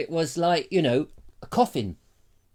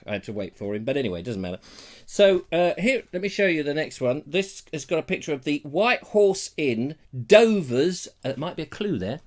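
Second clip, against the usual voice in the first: ordinary talk, nothing marked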